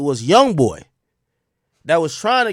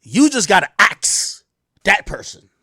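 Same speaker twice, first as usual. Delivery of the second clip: Southern "ask" said as "ax"; deep Southern accent. Retold or imitated. Alleged doctor answering the undercover cop, Southern accent. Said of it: "in a deep Southern accent".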